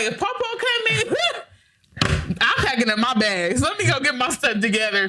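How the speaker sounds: put-on high, excited child voice packing up; kids' eager voice. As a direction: play the excited little kids. Kids voiced mimicking grandpa's visit.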